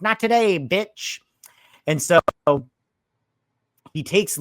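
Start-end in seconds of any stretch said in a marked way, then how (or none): 0.0-1.2 tough line. Retold or imitated. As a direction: bark it like a movie hero. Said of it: "he's like".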